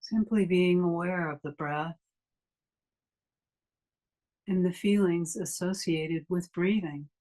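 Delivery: unhurried meditation guide with long pauses; guided meditation. Acted. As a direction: ease listeners into stillness, leaving long silences between phrases.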